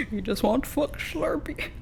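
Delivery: high-pitched words through real laughter; laughing. Real, not acted. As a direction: laugh while you say it. Laughs at the ranter's outburst.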